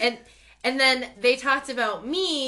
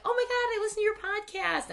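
put-on higher, gushing young fan; excited fan voice; 10 semitones higher, 3 dB quieter than usual. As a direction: gush like a starstruck fan. Retells a fan stopping her.

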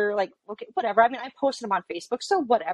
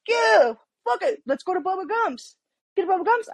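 much higher, casual and carefree; telling investigators about the late night, high and nonchalant; breezy retold answer; 9 semitones higher than usual. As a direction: brush it off like it's nothing. Retelling her carefree choice.

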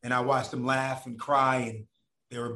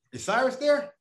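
high caller voice; 11 semitones higher, 3 dB louder than usual. Retold or imitated.

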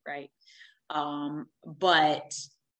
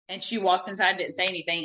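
usual speaking voice

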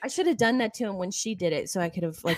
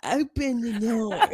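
put-on country accent; 2 semitones higher, slower than usual. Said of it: "With her country accent".

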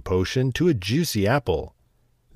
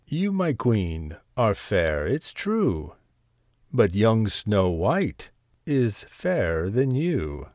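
shimmering echoing mirror voice; slower than usual. Acted. Mirror delivers bad news.

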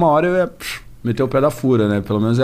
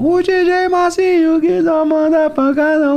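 high, slow hype announcer; DJ drop voice; slower than usual. Retold or imitated. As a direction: call it out like a funk DJ tag. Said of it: "um dos primeiros caras que eu vi fazendo".

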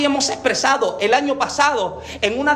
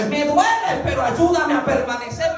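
pained cry; 3 semitones higher than usual. Acted.

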